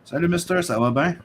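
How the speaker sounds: greeting in a mock French accent. French-Canadian host greeting a viewer in mock French accent. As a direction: lightly play up the French. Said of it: "How'd you like my French accent?".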